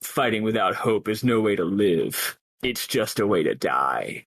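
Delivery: lightly voiced cool heroine, dropping low and slow at the end; understated stern warrior woman; Lightning voice. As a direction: deliver it like a calm badass one-liner. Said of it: "Lightning voice".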